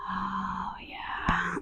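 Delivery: very soft whisper; relieved release. Real, not acted. Guide grateful for the release, whispered sigh. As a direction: breathe it out in relief.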